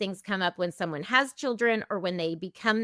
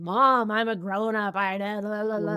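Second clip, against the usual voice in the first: protesting twenty-something self. Retold or imitated. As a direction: act out a young adult arguing with mom. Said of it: "in my twenties, I would have had that conversation".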